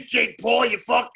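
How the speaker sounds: fight-promo trash talk. Shown as a demonstration. Fighter shows the coach he can sell a fight, trash-talking. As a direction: throw down a challenge like a fighter on the mic. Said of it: "I'll just talk like this".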